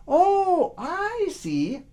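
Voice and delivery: put-on high, loud boyish realization; eager boy. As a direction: foolish boy thinks he understands, high and loud. Boy grasps it.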